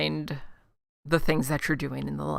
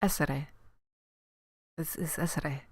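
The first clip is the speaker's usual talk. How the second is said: Hermione voice; 3 semitones lower, 10 dB quieter than usual. Retold or imitated. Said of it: "You sound like Hermione".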